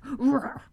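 mock roar imitation; a playful imitated roar; crocodile roar. Shown as a demonstration. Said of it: "That's my imitation".

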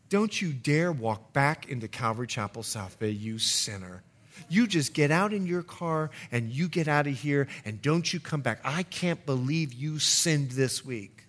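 low, quiet mock scolding; condemning pastor. Pastor banishing a confessing sinner, low stern mock rebuke.

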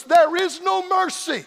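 slow, ringing pulpit cry; thundered warning. Real, not acted. Preacher warning the unsaved at the climax, thundering. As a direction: draw it out at full preaching force.

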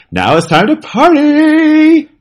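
high, slow party hype call; party announcer. Retold or imitated. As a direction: hype the crowd up. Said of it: "it's telling you".

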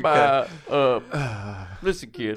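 halting, slurred boxer voice; Rocky. Acted. Host introduces guest on his left, Rocky voice. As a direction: introduce your guest like a punchy fighter. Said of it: "back to sounding like Rocky".

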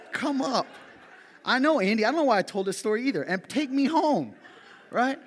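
high, laughing through the words. Real, not acted. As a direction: crack up while telling it. Laughing at own story.

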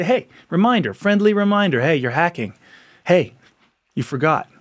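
light, friendly nudge; a gentle heads-up between friends; friendly reminder. Pretend. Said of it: "not in a finger pointy way".

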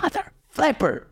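high, slow strangled mock curse. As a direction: squeeze it out high like a cartoon grump. Frustrated at the no-drinks rule.

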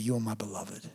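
very soft, low and falling; God's tender assurance. Acted. Preacher giving God's word to the listener, hushed and tender. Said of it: "the word he would give you today".

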